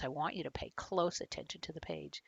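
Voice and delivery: whisper. Real, not acted. Author whispering to young listeners, hushed. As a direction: lean in and whisper the instruction. Author urging kids to look closely.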